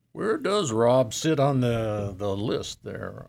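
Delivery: put-on Santa with a light French accent. Santa tells the radio host of Paris in a light French accent. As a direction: play Père Noël with a hint of French. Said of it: "Was it your French accent?".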